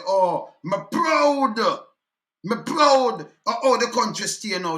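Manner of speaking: drawn-out "proud", lightly mocking; mock proud quote. Quoting people proud of the country, mock proud. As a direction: imitate proud supporters, stretching the word slowly. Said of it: "until they say".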